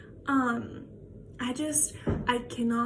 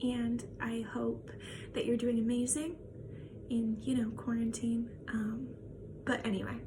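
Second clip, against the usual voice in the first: soft whisper; 5 dB quieter than usual. Real, not acted. Ending a farewell message softly.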